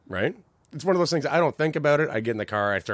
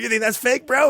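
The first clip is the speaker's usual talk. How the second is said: cocky challenge; 14 semitones higher, 8 dB louder than usual. Retold or imitated. Singer challenging friend after note.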